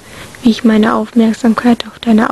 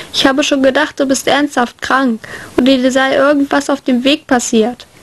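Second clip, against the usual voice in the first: lightly voiced worried friend. Visitor tells England he worried about him, lightly voiced exasperation. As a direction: scold gently, worry showing through.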